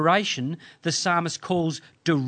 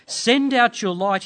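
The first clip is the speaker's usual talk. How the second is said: higher, louder call to God; daring, hopeful plea; 7 semitones higher, 5 dB louder than usual. Acted. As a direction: call out boldly in prayer. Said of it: "in daring and dependent, hope-filled faith".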